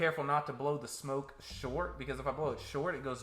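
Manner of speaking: talking around a cigarette; words past a cigarette in the lips; cigarette in mouth. Real, not acted. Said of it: "I can work with a cigarette in my mouth".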